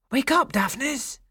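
high, rising voiced call; insistent rousing call. A narrator's reading. Shepherd shaking Daphnis awake, high insistent call.

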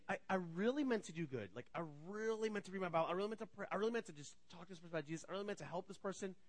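soft, hurried excuses; sheepish confession. Acted. Person confessing to God unmet intentions, soft sheepish murmur. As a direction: mumble good intentions under your breath.

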